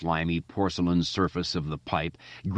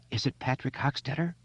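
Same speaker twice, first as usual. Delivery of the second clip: high, shaky frightened question; trembling, near hysteria; 8 semitones higher, 4 dB quieter than usual. Acted. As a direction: ask on the edge of panic. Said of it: "her voice trembling on the edge of hysteria".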